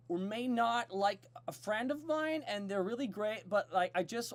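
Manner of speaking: high, fast, fidgety nervous voice; nervous letter-writer voice. Acted. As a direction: read it like a shy, flustered bird. Reads a letter as a nervous bird.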